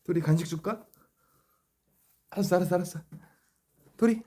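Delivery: high, loud coaxing pet voice; talking to a dog. Real, not acted. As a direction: bribe the dog with a treat.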